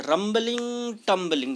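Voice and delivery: রাম্বলিং pitched high, টাম্বলিং dropping to answer it; rhyming lilt, high on রাম্বলিং and falling on টাম্বলিং; musical lilt. Shown as a demonstration. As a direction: chime রাম্বলিং high, then bring টাম্বলিং down. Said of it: "মনে হচ্ছে যেন একটা সুর তৈরি হচ্ছে".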